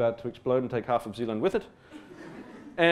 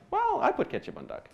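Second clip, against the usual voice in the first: defiant retort; 12 semitones higher, 5 dB quieter than usual. Retold or imitated. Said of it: "I'm like".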